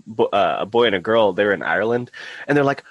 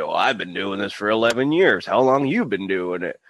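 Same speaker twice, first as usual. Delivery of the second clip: put-on old man. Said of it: "this guy in the sixties".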